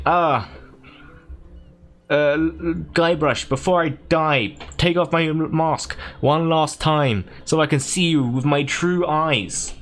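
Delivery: slow, drawn-out dying villain; LeChuck. Acted. Villain's last request to Guybrush, slow melodrama. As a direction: make a ponderous last request. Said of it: "LeChuck's like".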